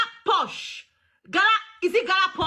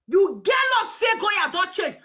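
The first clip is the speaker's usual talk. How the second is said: shouted repeat. Real, not acted. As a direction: hammer the line home, shouting it.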